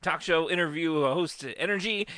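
a hint of talk show host energy. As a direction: lightly play a chipper late-night host. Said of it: "he's like".

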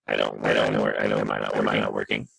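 robotic, distorted mic voice. Real, not acted. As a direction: sounds like a murder robot through the mic. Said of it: "You sound like a murder robot".

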